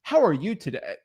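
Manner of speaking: professional greeting. Shown as a demonstration. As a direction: greet them properly, as a polite professional. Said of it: "That's just not who I am".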